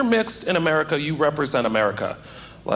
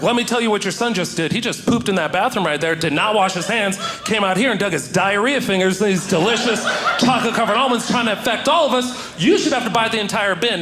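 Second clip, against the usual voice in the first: higher, building mock rant; matching her energy; 4 semitones higher than usual. Comic ranting at the mother in Whole Foods, building mock rant. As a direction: escalate into a righteous rant. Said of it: "I had to meet her at her energy".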